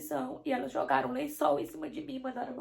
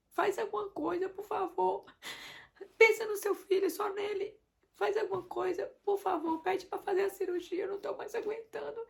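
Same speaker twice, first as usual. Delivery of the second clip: retold begging, voice pitched higher, pleading to be helped; desperate pleading; 6 semitones higher than usual. Wife begging husband in the delivery room, desperate pleading. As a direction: plead with him as if at your limit.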